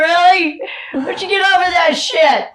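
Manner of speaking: loud, high mocking scold; mocking herself. Mocking her own grudge, loud. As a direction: tease yourself for holding a grudge. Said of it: "I went".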